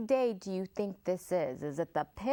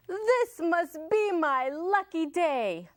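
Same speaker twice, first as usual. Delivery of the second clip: higher, louder gloating shout; fox shouting; 8 semitones higher, 4 dB louder than usual. Acted. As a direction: gloat out loud. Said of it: "the fox shouted".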